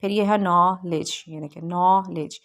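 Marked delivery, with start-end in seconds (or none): 0.4-1.2 नॉलेज split slowly as "naw... lej"; careful pronunciation. Shown as a demonstration. Teacher modelling pronunciation, नॉलेज slowly split in two. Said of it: "ये इसकी हमने pronunciation की है". 1.6-2.4 नॉलेज parted as "naw... lej"; careful pronunciation. Shown as a demonstration. Teacher modelling pronunciation, नॉलेज split in two syllables. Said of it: "ये इसकी हमने pronunciation की है".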